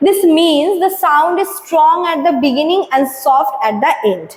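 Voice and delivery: slow, deliberate textbook read-out; slow reading aloud. Acted. Teacher reading the definition to students, slow and deliberate. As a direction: read the definition slowly for the class. Reads textbook line slowly.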